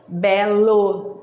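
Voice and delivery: Belo with the LO drawn out; final-syllable emphasis. Shown as a demonstration. Teacher showing where the syllable sits, final-syllable emphasis. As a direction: lean on the closing LO of Belo.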